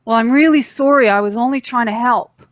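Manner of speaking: the wrong way: sorry with an edge; defensive sorry. Shown as a demonstration. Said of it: "And it's not, you know".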